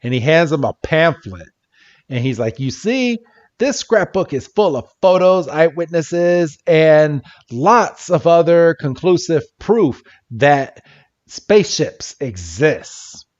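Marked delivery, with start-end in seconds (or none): 2.6-13.3 conspiracy weirdo. Retold or imitated. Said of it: "he's got a thick German accent".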